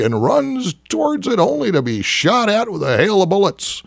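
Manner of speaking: ordinary delivery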